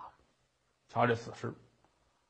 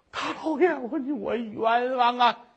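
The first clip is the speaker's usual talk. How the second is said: stammered plea; 4 semitones higher than usual. Acted. Woman pleads stammering.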